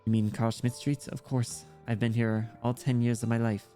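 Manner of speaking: lightly voiced child with German accent; understated German-accented character voice; German-accented young girl. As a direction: chat like a German kid, lightly.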